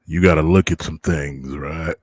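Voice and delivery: creaky elder grumbling; very old man. Pretend. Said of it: "I gotta go with my old man voice".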